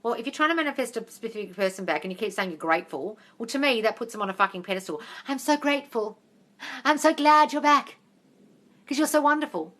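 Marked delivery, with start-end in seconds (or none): 5.3-9.7 high, exaggerated adoration; mock gushing gratitude. Coach mimicking someone pedestalling an ex, mock gushing. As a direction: gush in mockery, voice pitched up.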